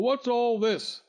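slow, booming demand; booming male voice. Acted. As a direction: boom the question slowly. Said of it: "boomed a voice".

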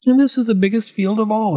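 high-pitched farmer's complaint; worked-up muttering farmer; grumbling to himself. A narrator's reading. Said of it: "talking to himself".

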